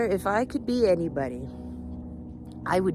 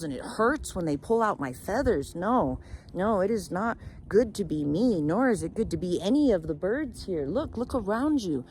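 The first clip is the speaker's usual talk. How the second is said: emphatic, louder lament; aggrieved protest; 3 semitones higher, 4 dB louder than usual. Acted. Caged peacock tells raven of its misery, aggrieved protest. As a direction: pour out the grievance with rising force.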